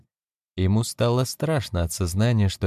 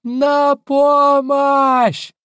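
very high, drawn-out scream; screaming for help; 9 dB louder, much slower than usual. A narrator's reading. Wife screams for help against her husband. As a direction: cry out for help as if in danger. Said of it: "завопила Джоанна".

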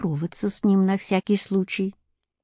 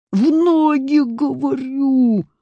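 put-on high, slow enraged boyar; furious order; 7 semitones higher, slower than usual. A narrator's reading. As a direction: hammer out the command. Boyar repeats his order. (гневный приказ)

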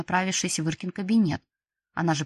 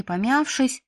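usual speaking voice

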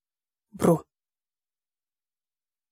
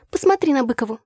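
higher, mildly derisive remark; scornful snort; 7 semitones higher than usual. A narrator's reading. Tasya snorts at a classmate's outfit, scornful. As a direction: scoff at someone across the room. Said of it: "фыркнула Тася".

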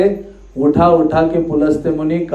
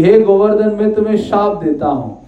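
lightly voiced angry curse, higher pitch; a touch of anger, raised pitch; mildly angry sage; 4 semitones higher than usual. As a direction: imitate a cross sage pronouncing a curse. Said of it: "मुनि को बहुत क्रोध आया".

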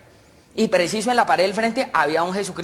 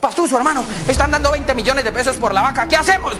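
urgent, higher-pitched appeal; excited; 5 semitones higher than usual. Acted. Paisa tells his partner of the offer, excited. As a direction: press your partner with big news.

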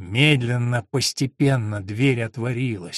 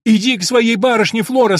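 higher, loud flustered order; panicked shout; 7 semitones higher, 8 dB louder than usual. Acted. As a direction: shout at her in a fright. Panicked woman orders the maid. (испуганный крик)

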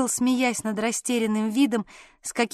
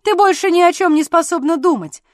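loud, higher accusing outburst; angry reproach; 6 semitones higher, 7 dB louder than usual. A narrator's reading. Jealous husband reproaching his wife, loud and angry. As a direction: throw the blame at her, loud and sharp. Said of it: "продолжал он тем же тоном".

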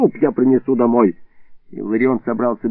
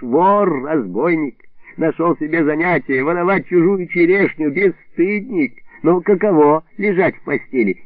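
higher, lightly voiced gloating taunts; mocking tirade; 4 semitones higher than usual. Neighbour taunting the hidden thief, mock angry. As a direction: jeer at the hiding thief. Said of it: "а потом разразился".

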